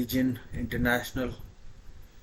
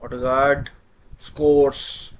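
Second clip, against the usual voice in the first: excited; 6 dB louder, much slower than usual. Real, not acted. Penalty scored, commentator calls it.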